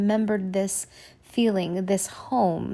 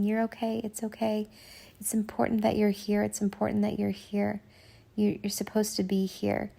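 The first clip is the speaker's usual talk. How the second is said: soothing reassurance; 5 dB quieter than usual. Retold or imitated. Guide comforting her, retold.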